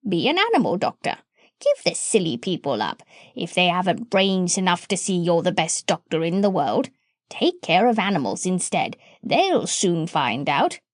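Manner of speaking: a hint of a bossy parrot coaxing. Parrot advising.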